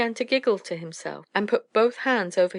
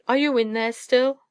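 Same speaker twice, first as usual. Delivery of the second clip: loud, higher-pitched calling; raised-voice owl demand; crying out; 5 semitones higher, 5 dB louder than usual. A narrator's reading. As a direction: call in to whoever is hiding. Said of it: "she cried".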